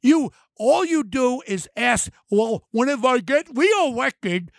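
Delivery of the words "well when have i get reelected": mock lisping governor, slow and sneering; slow mocking lisp on reelected. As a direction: imitate her talking through bad teeth, slowly. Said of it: "your teeth getting away a lot".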